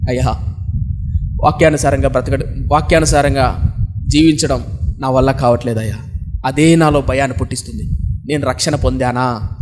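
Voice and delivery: understated imitation of weeping, pitched low; retold weeping. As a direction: imitate a distressed girl confessing to her pastor. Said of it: "భయంకరంగా ఏడుస్తుంది".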